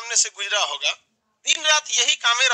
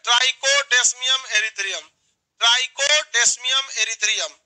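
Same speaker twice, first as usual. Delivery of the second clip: slow, syllable by syllable; slow drill; much slower than usual. Shown as a demonstration. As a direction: spell it out slowly for recall. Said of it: "चार बार बोलिए".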